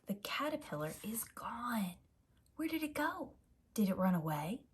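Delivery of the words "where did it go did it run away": put-on a child who finds the jar empty; worried surprise. Pete worried on waking.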